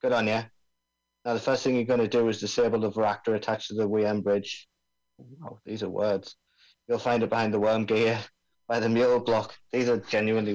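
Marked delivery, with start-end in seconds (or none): 0.0-4.7 lightly voiced Aussie bomb expert; laid-back Australian accent, mate. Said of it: "I'm supposed to be doing an Australian accent here". 6.9-9.5 lightly voiced Aussie bomb expert; laid-back Australian accent, mate. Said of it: "I'm supposed to be doing an Australian accent here".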